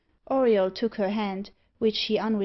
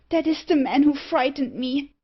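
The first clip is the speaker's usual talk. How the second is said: high, louder exclamation of fright; alarmed cry; 5 semitones higher, 5 dB louder than usual. A narrator's reading. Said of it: "cried Ebba".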